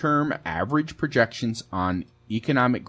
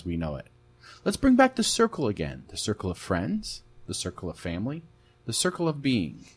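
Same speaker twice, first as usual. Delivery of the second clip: radio host. Acted. Radio show intro.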